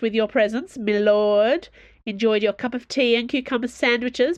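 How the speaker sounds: mock "lord" as a jibe, tipping up at the end; "my lord?" thrown out as a sarcastic jab, rising on lord. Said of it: "Treville had mocked him with that word".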